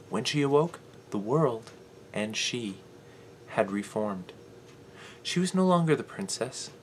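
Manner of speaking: measured fairy-tale telling with dramatic pauses; storybook narration. Acted. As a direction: tell it as a solemn fable, phrase by phrase. Performs a written fairy-tale monologue.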